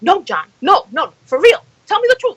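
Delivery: pleading. Retold or imitated. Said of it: "I just kept on saying it".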